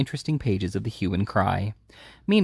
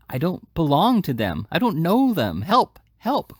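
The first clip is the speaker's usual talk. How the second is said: desperate cry; 5 semitones higher, slower than usual. A narrator's reading. Oliver cries for help in the man's grasp. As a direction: scream for help, struggling. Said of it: "cried Oliver, struggling".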